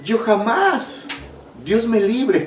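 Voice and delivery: imitating a scoffer in a high, put-on voice; mock horrified refusal. Preacher acting out people who mock the afflicted, high-pitched mock horror. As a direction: stretch the first words high in exaggerated refusal.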